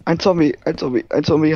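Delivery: high, loud zombie panic; panicked shout. Acted. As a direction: yell it in a game fright. Zombie greift an. (panisch rufen)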